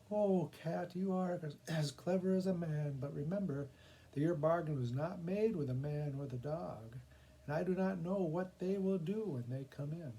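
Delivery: a woman teasing the cat; amused woman. Acted.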